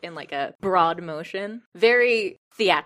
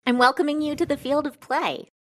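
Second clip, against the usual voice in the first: grand showy invitation; 8 semitones higher, faster than usual. Acted. Chafra gestures at the sky.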